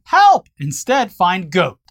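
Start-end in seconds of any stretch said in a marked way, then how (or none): 0.0-0.5 high yelp of Help!; quick high mock yelp; mock cry for help. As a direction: yelp it like a goat calling for help. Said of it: "searching for someone yelling".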